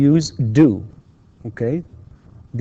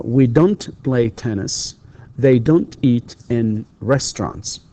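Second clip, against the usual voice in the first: slow model sentence; slower than usual. Shown as a demonstration. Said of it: "You say".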